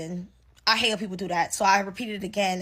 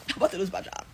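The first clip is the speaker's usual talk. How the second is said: breathy laughing repeat, softer; 3 semitones lower, 7 dB quieter, faster than usual. Real, not acted. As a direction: laugh it out in disbelief. Laughs at her own panic.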